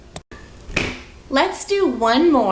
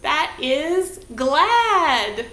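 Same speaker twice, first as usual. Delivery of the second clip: drawn-out glad; 3 semitones higher, 5 dB louder, much slower than usual. Shown as a demonstration. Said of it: "what does that look like".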